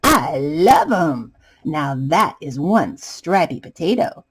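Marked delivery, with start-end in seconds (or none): 0.0-1.3 happy tears. Acted. Potato overjoyed with pants.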